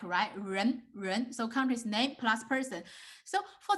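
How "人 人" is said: 人 with a curled-back tongue on the first sound; teacher modelling 人 twice; tongue rolled back. Shown as a demonstration. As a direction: curl your tongue back for 人. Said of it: "you just rolling your tongue back".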